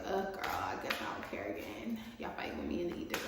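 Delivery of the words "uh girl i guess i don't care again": bad acting. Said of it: "It's like".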